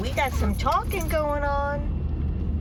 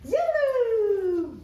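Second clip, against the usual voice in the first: calling the dog; 11 semitones higher, 4 dB louder, slower than usual. Real, not acted.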